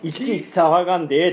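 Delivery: made-up regional accent, lightly acted; loosely Kansai-accented character quote; Kansai-like dialect. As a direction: manga hero's line in a Kansai-style lilt. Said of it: "関西弁だったの？".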